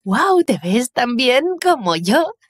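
slow, drawn-out amazed wow; stunned wow. Acted. Ana gasps at her sister's party outfit, slowly amazed. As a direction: let the wow hang in disbelief. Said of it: "me quedé boquiabierta".

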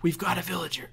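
loud triumphant yell; excited cheer. Real, not acted. Gamer cheering as the villager reaches the ladder, loud. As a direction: whoop with delight.

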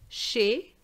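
chez as 'shay', lifted at the end; silent Z. Shown as a demonstration. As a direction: model chez ending on é alone. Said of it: "the Z is silent".

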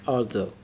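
Although said with the tongue tip between the teeth, th voiced like ذ. Shown as a demonstration. Teacher shows students Although, th as ذ. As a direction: Although with the th as ذ, slowly modelled.

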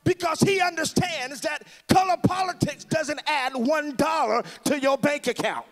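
fiery preacher rousing the crowd; preaching at full force. Real, not acted. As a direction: preach it loud and rising to the crowd.

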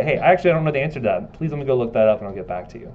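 firm, sure answer with no questioning lift; definitive. Shown as a demonstration. Student admitting to the preceptor they don't know, definitive. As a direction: own up plainly and with certainty. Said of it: "You wanna be definitive".

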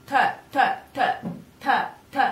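t with tongue on palate, no burst; dry Italian t. Shown as a demonstration. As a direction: tap t without a puff. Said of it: "tongue on your palate, but not bursting".

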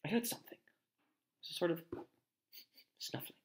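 tense, soft half-whisper; hushed. A narrator's reading. Harry warns friends of a noise, hushed. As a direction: whisper it, listening out. Hushed alarm in dark corridor.

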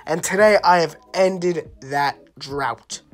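hyped reveal. Acted. Triumphant franchise reveal to viewers.

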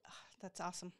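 a whispered "awesome" after the story. Real, not acted. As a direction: breathe it out, moved.

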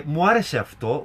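lightly imitated Kaya-style twisting accent; a hint of a twisting, tongue-rolling accent; Kaya's accent. Host imitating a TV judge's pronunciation, lightly twisted accent. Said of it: "Κυρίως για την προφορά της Καγιά".

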